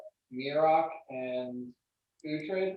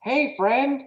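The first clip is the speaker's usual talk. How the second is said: much higher, fast sing-song friendly ask; polite version; 12 semitones higher than usual. Shown as a demonstration. GM showing how a friendly request would sound, high and sweet. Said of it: "when you try to say".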